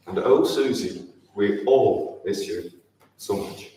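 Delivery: slow, fading, breathy farewell; tearful goodbye. Real, not acted. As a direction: let the last words break away to air. Final refrain, fading to breath.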